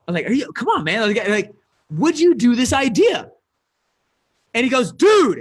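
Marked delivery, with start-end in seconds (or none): 0.3-3.3 higher-pitched exasperated plea; frustrated. Retold or imitated. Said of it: "I started to get frustrated". 4.9-5.4 loud, high exasperated burst; mock aggressive. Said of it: "texted back kind of aggressively".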